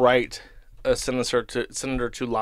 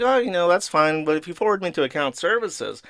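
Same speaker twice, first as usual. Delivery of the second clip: higher sugary interruption; sweetly insistent mock politeness; fake cheerful; 5 semitones higher than usual. Cutting off the rep again with fake cheer. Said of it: "I was like".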